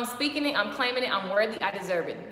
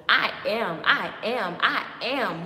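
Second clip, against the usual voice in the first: louder I am repeated; building declaration; 2 semitones lower, 4 dB louder, slower than usual. Shown as a demonstration. Coach rallying viewers, I am said louder. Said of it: "So what are you saying?".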